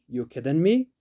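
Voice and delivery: "You kidding me?" with "are" dropped, said as "ya kiddin' me", rising at the end; natural pronunciation. Shown as a demonstration. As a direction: drop the "are" and run "You kidding me?" together casually. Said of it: "Natural pronunciation".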